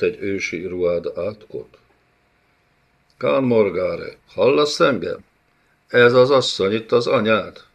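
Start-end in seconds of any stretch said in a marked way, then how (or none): 3.2-7.6 a stern bey, louder, pitch pushed up; menacing bey. Acted. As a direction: lean on him like a cruel overlord. Bey presses the prisoner.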